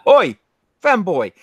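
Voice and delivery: loud, high rough London accent calling out; rough British accent. Shown as a demonstration. A working-class British greeting, loud and brash. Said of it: "only one particular class of British".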